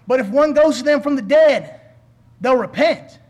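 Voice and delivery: mildly urgent pleading from the pulpit. Retold or imitated. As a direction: plead it firmly, lightly acting the rich man. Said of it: "the rich man still pleaded".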